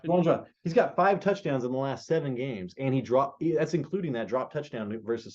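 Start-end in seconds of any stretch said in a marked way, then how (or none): 0.1-0.5 Juwan Johnson said carefully with stress on Juwan; clear emphatic name. Shown as a demonstration. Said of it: "Say Johnson".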